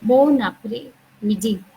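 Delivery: "bon après-midi" slowly, bon run into après as one word; slow linked repeat. Shown as a demonstration. Teacher repeating "bon après-midi" slowly for students to copy. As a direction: spell it out by ear, linking bon-après. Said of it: "I repeat".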